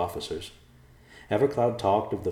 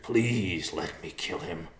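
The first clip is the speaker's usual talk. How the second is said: begging; slower than usual. Acted. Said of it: "Riverpaw begged".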